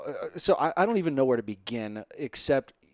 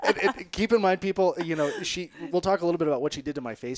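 numb lips from the dentist; numb mouth; 3 semitones higher, 4 dB louder than usual. Real, not acted. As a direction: speak through a numbed tongue and lips. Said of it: "my tongue and my lips are numb".

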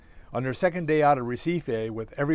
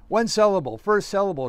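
raised, higher-pitched guessing; shouted guesses; 6 semitones higher, 3 dB louder than usual. A narrator's reading. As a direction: call out charades guesses eagerly. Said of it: "she shouted".

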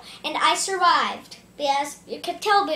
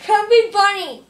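cheeks stuffed full. Real, not acted. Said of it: "doing the Chubby Bunny challenge".

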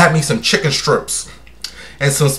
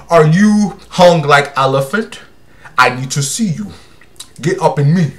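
playful put-on African accent. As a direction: flirt in a mock African accent. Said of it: "I can take their accents".

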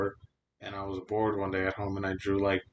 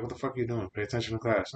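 mildly raised, mock-stern teacher; retold teacher scolding; 3 semitones higher, 4 dB louder, faster than usual. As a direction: imitate a teacher telling off a student.

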